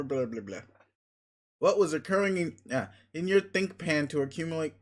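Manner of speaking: talking around a mouthful of ice; garbled words through ice in the mouth; slightly slurred, with ice still in the mouth; mouth full of ice. Real, not acted. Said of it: "I should swallow this ice before I try talking".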